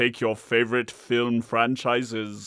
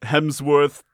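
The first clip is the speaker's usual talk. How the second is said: booming Norse god; 2 semitones higher, 5 dB louder, slower than usual. Acted. God character names Thor.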